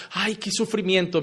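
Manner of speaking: sarcastic fake suffering; mock lament. Preacher mocking a sinner's pretend suffering, softly whining. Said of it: "Tú llorabas".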